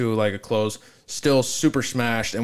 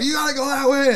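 much higher, lightly hammed-up staff voice; high mock employee; 13 semitones higher than usual. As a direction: play the bossy haunted-house worker. Employee voice in retold story.

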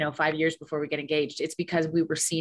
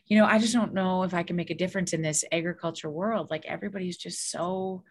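mock weary complaint. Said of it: "he said".

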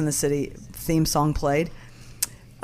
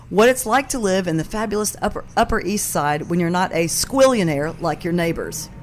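fake posh accent. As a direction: put on a posh New York accent. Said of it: "she said with a fake posh accent".

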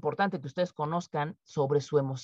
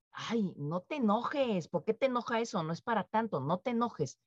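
patronizing soothing; 4 dB quieter than usual. Pretend. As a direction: coo at them to drop it. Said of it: "llega alguien y te dice".

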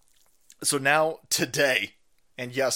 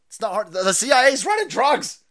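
usual speaking voice

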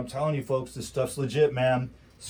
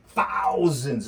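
thousands said louder and higher; Thousands, punched up loud and high; loud emphatic; 5 semitones higher, 5 dB louder than usual. Real, not acted. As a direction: hammer the word Thousands. Repeated for emphasis.

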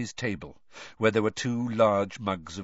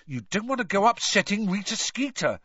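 high-pitched, anxious caution; nervous; 10 semitones higher than usual. A narrator's reading. Ron cautions Hermione about Rita, nervously. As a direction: warn a friend nervously. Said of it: "said Ron nervously".

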